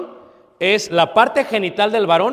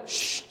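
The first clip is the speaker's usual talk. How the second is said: hush; 9 dB quieter than usual. Retold or imitated. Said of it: "le digo".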